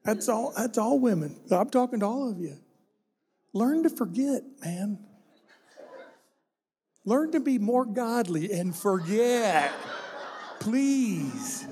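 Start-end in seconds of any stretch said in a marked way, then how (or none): 3.5-11.7 laughing tease. Real, not acted. Teasing the women, laughing.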